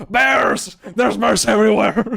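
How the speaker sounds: high, very loud panicked yell; full-volume mock alarm; comic screaming. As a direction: scream a warning like the opposite of ASMR. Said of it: "but I'm screaming".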